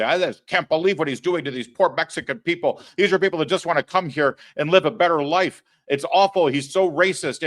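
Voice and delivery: lightly hammed-up pampered star complaining; mocking Hollywood star. Host mocking Hollywood stars who complain about Trump, in a whiny put-on voice. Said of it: "Hollywood stars ... they say".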